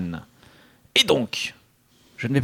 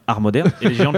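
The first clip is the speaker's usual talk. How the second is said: cracking up. Real, not acted. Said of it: "Là, ça se voit, là".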